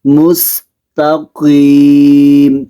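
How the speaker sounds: in مستقیم das Qaf voll und das Ta dünn sprechen; مستقیم langsam, Qaf dunkel, Ta fein; schweres Qaf, dünnes Ta. Shown as a demonstration. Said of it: "تا کو بریک پڑھنا ہے".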